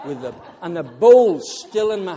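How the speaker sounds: loud, laughing through the story of sliding down the lane; can barely get the words out for laughing. Real, not acted. Preacher telling his congregation about the slide, laughing loudly.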